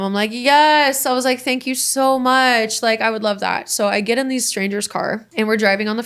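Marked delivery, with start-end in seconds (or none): 0.3-3.7 drawn-out, higher-pitched grateful yes and thanks; retold over-eager gratitude; naive gushing. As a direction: gush like a naive, young version of yourself. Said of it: "so young and dumb".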